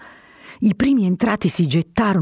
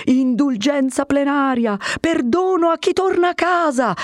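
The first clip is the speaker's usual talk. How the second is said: shouting offer; 9 semitones higher than usual. A narrator's reading. Captain promising pardon to the crowd, shouting. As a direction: call it out to win them over. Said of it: "gridò egli di nuovo".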